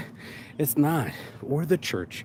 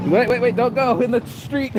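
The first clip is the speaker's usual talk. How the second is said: sharp, higher, louder warning call; 8 semitones higher, 4 dB louder than usual. Real, not acted. Warning a child away from the street, calling out loud.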